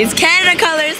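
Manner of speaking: ordinary talk, nothing marked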